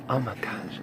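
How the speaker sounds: gasp, then whisper it; hushed, breath-caught whisper; awed whisper. Real, not acted. Marvelling at a precious pet, awed whisper.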